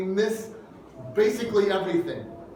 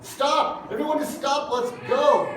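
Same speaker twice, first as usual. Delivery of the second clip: mock shout; 6 semitones higher than usual. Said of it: "what I would feel if I was Jairus".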